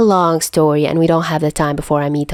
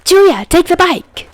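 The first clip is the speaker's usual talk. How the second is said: slow, high and loud shouted order; urgent shout; 11 semitones higher, 4 dB louder, slower than usual. Acted. Albatross ordering Chuya to grab the bike, urgent high shout. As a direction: call it across the street in a hurry.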